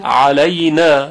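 علینا slow, opening on a pressed ain from the middle of the throat; علینا with a squeezed throat ain, drawn out; علینا with a clear pharyngeal ain. Shown as a demonstration.

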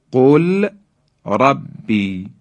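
قل ربی as qul, pause, rabbi; slow demo with clear ل before ربی; unmerged lam. Shown as a demonstration. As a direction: separate قل from ربی, sounding the l. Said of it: "لام ساکن در حرف".

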